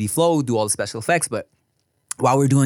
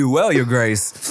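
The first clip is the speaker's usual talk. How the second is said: put-on slow, courtly British accent on Your Grace; put-on British accent, lightly done; mock British accent; much slower than usual. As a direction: address royalty in a British accent. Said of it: "ready to do that accent".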